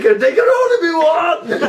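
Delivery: high laughing villain shout; booming demon lord. Retold or imitated. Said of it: "you were like".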